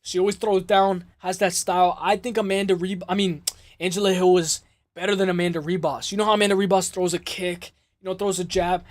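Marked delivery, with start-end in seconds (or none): none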